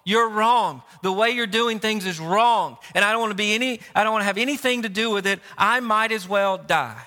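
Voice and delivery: emphatic acted accusation, mildly angry; Jonah accusing God. Preacher as Jonah telling God off, indignant. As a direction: stubbornly throw the blame back. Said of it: "what he is saying here is".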